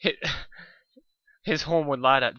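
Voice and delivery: real giggle breaking into the reread; laughing restart. Real, not acted. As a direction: restart the line still laughing.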